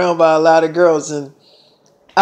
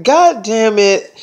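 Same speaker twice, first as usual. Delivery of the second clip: imitated exasperation, drawn out; slow mock huff from an annoyed girlfriend; girlfriend with attitude; 3 semitones higher, slower than usual. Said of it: "she had a little attitude".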